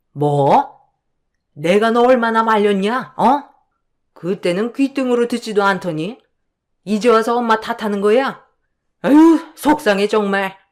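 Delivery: mother-in-law, offended, flaring on 속상해; a hurt older woman snapping back; indignant mother-in-law. Acted. Mother-in-law protesting her son's blame, indignant.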